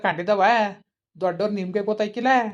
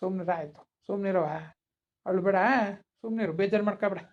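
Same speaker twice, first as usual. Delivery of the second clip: soothing; 4 dB quieter than usual. Acted. Grandfather comforts crying child.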